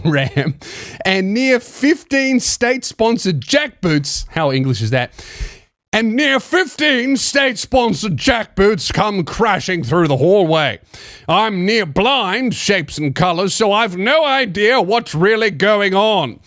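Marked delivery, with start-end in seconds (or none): 1.1-4.3 lightly put-on English accent. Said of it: "English accent as a woman". 5.9-16.4 lightly put-on English accent. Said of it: "English accent as a woman".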